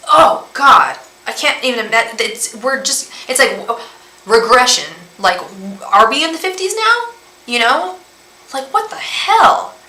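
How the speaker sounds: exasperated, pitch leaping up at the peaks; rising real indignation; getting angry. Real, not acted. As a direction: sputter in disbelief, voice climbing high. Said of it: "I'm actually getting angry".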